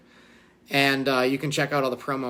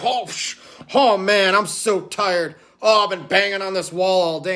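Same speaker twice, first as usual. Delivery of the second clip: hammed-up fake tiredness; 4 semitones higher, 4 dB louder than usual. Parodying host faking exhaustion.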